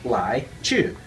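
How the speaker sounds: "lai", "chu" pronounced the Mandarin way. Shown as a demonstration. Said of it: "depending on your dialect, you pronounce".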